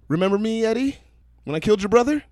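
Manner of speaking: imitating a high-pitched villain; high, creepy reveal voice. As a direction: pitch it way up, menacing. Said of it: "He had this high-ass pitch voice".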